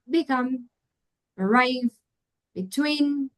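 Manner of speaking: "become", "arrive", "between" with the second syllable stronger; second-syllable stress. Shown as a demonstration. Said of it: "in the second syllable".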